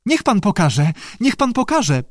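high plea rising on the repeat; delighted squealing. A narrator's reading. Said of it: "piszczała zachwycona Lee".

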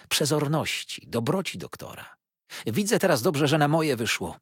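put-on high, loud prattling old mother; babbling old woman. A narrator's reading. Old mother prattles at her guests, gushing. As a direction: gush and chatter like a proud old dame. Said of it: "paplała stara".

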